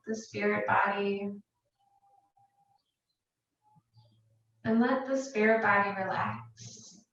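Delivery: calm, unhurried meditation guidance with long pauses; guided meditation. Real, not acted. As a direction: guide them gently into relaxation, leaving space between phrases. Leads a meditation.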